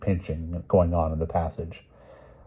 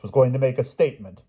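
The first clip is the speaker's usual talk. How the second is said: announcing princess; 7 semitones higher, 5 dB louder than usual. Acted. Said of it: "she announced".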